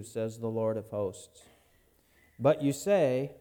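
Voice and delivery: measured, solemn Bible reading; scripture reading. Acted. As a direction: read the Lord's words with weight. Reads the Malachi passage aloud.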